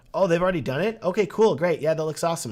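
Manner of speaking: mock won-over customer; acted impressed client. Couple seeing a filmed exotic wedding, acted eager approval.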